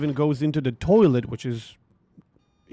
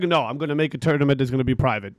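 sarcastic reply; 2 semitones lower, faster than usual. Retold or imitated. Sarcastic reply to pestering caller.

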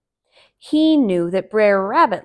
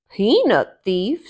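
Brer Bear; 5 dB louder than usual. Acted. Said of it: "said Brer Bear".

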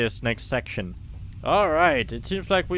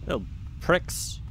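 whispered; 4 dB quieter than usual. Real, not acted. Muttered aside at enemies.

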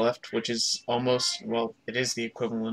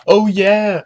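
excited shout; 9 semitones higher, 13 dB louder than usual. Real, not acted. Excited jump celebration.

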